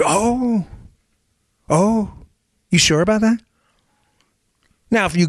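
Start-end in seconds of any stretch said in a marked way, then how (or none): 0.0-3.4 high, drawn-out sarcastic "oh"; mock disbelief, pitched high. Real, not acted. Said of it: "mocking reply".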